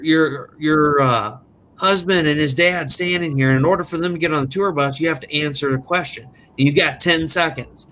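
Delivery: dad faking a famous drummer on the phone; fake Sully voice. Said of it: "changed his voice".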